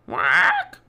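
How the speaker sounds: loud, high bird squawk; parrot squawk. A narrator's reading. Parrot circling over the pirates, squawking loudly. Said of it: "she squawked".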